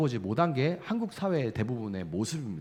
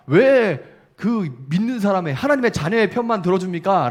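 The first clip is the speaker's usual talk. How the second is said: protesting complaint; 6 semitones higher, 6 dB louder than usual. Acted. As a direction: challenge God in protest, higher and louder. Acted complaint challenging God.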